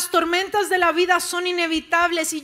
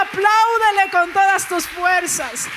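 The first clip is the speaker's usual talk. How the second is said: rising, louder preacher's call to praise; full-force preaching; 4 dB louder than usual. Acted. Pastor rousing the church to glory, full-force preaching. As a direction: build the congregation up to shout praise.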